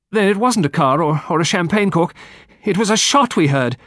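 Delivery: loud, high hysterical cry. A narrator's reading. Girl realising they heard a shot, high and hysterical. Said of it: "In a high, hysterical voice".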